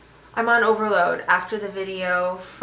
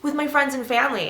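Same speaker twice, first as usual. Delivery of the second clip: eager naive vegan; 8 semitones higher, 3 dB louder, faster than usual. Retold or imitated. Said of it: "really naive idea".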